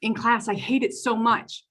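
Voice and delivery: a hint of an upset kid; student explaining why she ran away, mildly childlike; imitating the child. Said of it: "And so she said".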